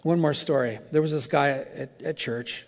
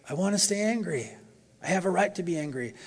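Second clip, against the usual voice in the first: protesting; 4 semitones higher than usual. Retold or imitated. Mimicking himself protesting to God.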